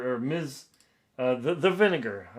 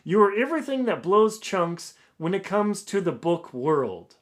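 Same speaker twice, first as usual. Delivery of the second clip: higher, louder mock pompous English accent; 6 semitones higher, 5 dB louder than usual. Author reading the reviewer's insults, pompous English accent. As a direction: sneer it like a haughty English critic. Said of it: "pompous English accent".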